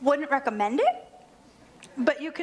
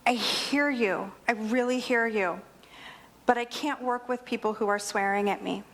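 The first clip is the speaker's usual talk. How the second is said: acted composure, lower and unhurried; calm acknowledgement; 3 semitones lower than usual. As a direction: hold steady with an upset customer. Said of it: "Instead, what I did was".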